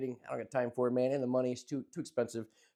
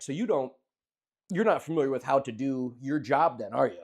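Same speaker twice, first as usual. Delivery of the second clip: dry retold sarcasm to a barber; lightly voiced biting sarcasm; sarcastic; 2 semitones lower than usual. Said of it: "I went sarcastic level a hundred".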